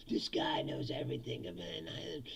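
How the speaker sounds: mock-awed near whisper; barely voiced, like a follower in awe; hushed awed follower. Voicing an awed cult follower.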